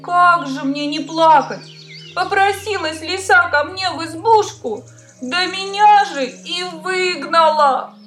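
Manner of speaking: high, tearful hare voice; a little hare crying its woes. Acted. Hare complains again.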